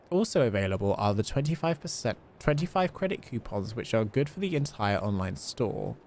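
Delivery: a light, measured reading of a spam advert. Acted. Streamer reading a spam advert to chat, lightly salesy. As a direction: read it out like a cheesy sales pitch. Reads the in-game ad aloud.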